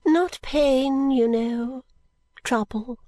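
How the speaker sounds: put-on high, fussy old lady; an eccentric old woman explaining; fluttery old lady. Miss Flite explains her illness, high and fussy.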